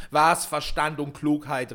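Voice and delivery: loud, slow, scornful exclamation; angry retort. A narrator's reading. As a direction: throw the words back angrily. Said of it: "rief jeder".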